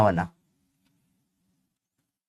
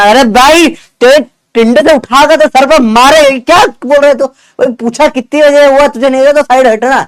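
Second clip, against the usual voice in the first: exasperated victim snapping back, a little higher; irritated retort; 3 semitones higher than usual. Retold or imitated. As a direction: brush off the nosy questions, irritated and raised. Annoyed victim answering busybody questions. (पीड़ित की झुंझलाई, थोड़ी ऊँची आवाज़)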